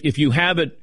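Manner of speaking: usual speaking voice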